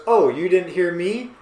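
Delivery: lightly acted indignant question. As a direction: play a mild first round of shouting. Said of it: "All caps".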